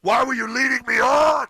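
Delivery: high, loud, hammed-up wounded woman; mock offended nurse. Cohost parodies the nurse, loud high mock outrage. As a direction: squeal it like a jilted lady.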